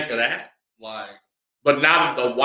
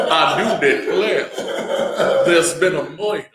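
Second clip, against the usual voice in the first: put-on Southern belle accent; 4 semitones higher, 3 dB louder than usual. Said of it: "Florida panhandle accent".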